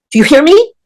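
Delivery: mock angry scolding. Luther scolding her, retold.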